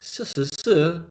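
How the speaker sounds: tag. Retold or imitated. Repeats the confusing syllables back.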